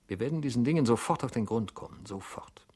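fast, whispered determination; a hurried whisper of resolve; hushed resolve. Acted.

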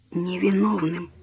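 soft, slow, absent repeat; dazed echo. A narrator's reading. Daughter numbly repeats mother's word, dazed and soft. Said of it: "повторила Берта почти бессознательно".

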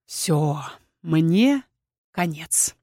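low, halting defeat; sinking, hopeless close; resigned despair. A narrator's reading. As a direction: give up word by word. Witch resigns herself to doom.

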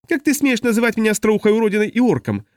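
high indignant yell; outraged, voice jumping up; furious high-pitched Makri; shrieking Makri. A narrator's reading. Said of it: "завопила Макри".

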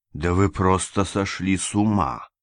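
ordinary delivery

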